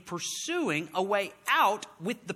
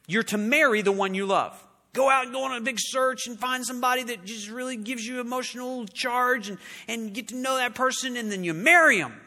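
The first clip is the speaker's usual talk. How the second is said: higher, mocking the world's advice; mocking worldly advice; 4 semitones higher than usual. Preacher mimics the world's advice about love, mockingly higher. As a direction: sell it like cheap advice.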